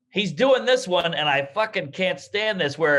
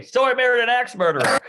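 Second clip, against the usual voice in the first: giggling through the title; laughing punchline; 7 semitones higher, 3 dB louder than usual. Retold or imitated. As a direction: laugh as you say it. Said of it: "What's your favorite movie?".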